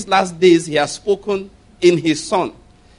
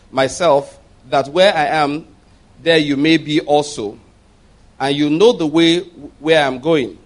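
louder, measured Bible reading voice; scripture reading; 4 dB louder than usual. Acted. Preacher reading scripture aloud to his church, solemn. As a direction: read the verses out to the congregation. Reads John fourteen aloud.

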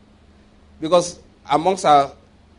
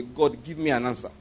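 quick prayer; 4 semitones lower, 6 dB quieter than usual. Retold or imitated. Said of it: "under my breath I prayed".

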